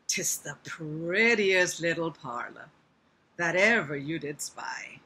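slow put-on American spider voice; American accent. Shown as a demonstration. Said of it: "I can't do American accents very well".

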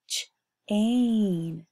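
"ch-ain" split into onset and rhyme; segmented. Shown as a demonstration. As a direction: pull apart "ch-ain" slowly. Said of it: "teacher splits the word".

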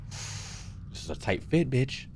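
hushed, nervous whisper squeezing through; tense whispered aside; scared whisper. Real, not acted. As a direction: breathe it out, afraid to be heard. Scared whisper in dark corridor.

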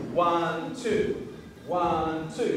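ONE drawn out, then TWO as a separate beat; two syllable count. Shown as a demonstration. Teacher showing students a split technique, ONE and TWO dragged apart. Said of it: "You've made it a two syllable technique".

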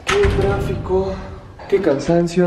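slow, drawn-out complaint; weary complaining. Acted. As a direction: sigh out each complaint.

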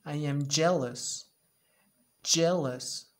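loud, slow jealous whine; hammed-up jealous whine; mock jealousy. Shown as a demonstration. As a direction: act jealous of a toy. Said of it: "¿Qué estoy?".

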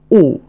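أو as a pure rounded French o; French o sound. Shown as a demonstration. Teacher showing the vowel: rounded أو. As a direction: round the lips for أو. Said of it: "ثم حرف أو ينطق".

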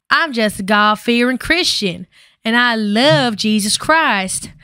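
lightly put-on Southern accent, slow on the last line; a teasing Southern church-girl accent, drawn out at the end; hint of a Southern accent mocking a pious girl. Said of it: "when I try to do that accent".

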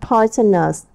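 Poisonous with POI stressed; stress on first syllable. Shown as a demonstration. Teacher modelling stress for the class, first syllable stressed. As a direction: hit the first part of Poisonous. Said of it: "Ta nhấn phần một".

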